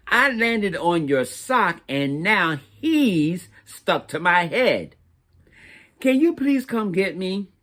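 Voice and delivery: a sweet, slightly whiny little crayon asking for rescue; stuck turquoise crayon. Acted. Turquoise crayon writes a letter.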